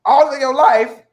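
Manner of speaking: put-on a playful girlfriend talking you up, rising and laughing; cheering a broke friend turned rich, tongue in cheek; sassy hype girl. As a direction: hype her up, sister-to-sister, breaking into a laugh. Acted friend hyping her up.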